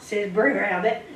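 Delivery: usual speaking voice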